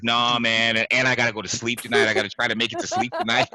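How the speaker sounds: mock earnest hushed friend, quick; hammed-up spooked buddy, rushing; imitating scared Mike. Imitating Mike's spooked excuse to the host, hurried and earnest. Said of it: "'Cause this is how he's talking".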